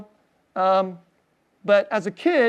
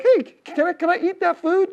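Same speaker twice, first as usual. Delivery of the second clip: eager asking; 10 semitones higher than usual. Pretend. Eager guest at heaven's table.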